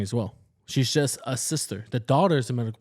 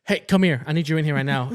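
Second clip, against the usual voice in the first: bossy demand; 5 dB louder than usual. Retold or imitated. Retold demanding sister.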